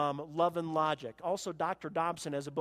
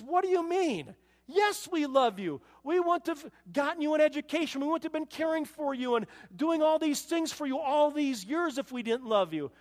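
astonished reply; 8 semitones higher, 4 dB louder than usual. Retold or imitated. Neighbor answers the boy.

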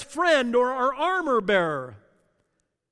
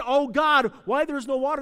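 mock plea; 5 semitones higher, 5 dB louder than usual. Hypothetical prayer of Israel.

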